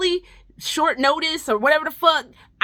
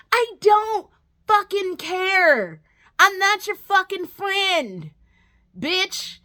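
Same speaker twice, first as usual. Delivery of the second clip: slow, emphatic, higher exasperated rant; 7 semitones higher, slower than usual. Real, not acted. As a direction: spell out you don't care. Ranting at the character.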